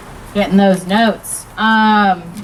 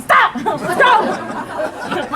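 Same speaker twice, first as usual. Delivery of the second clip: high yelp at a dog; mock panicked scolding; 10 semitones higher than usual. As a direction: act out a squealed command to stop. Yelling at the dog, acted.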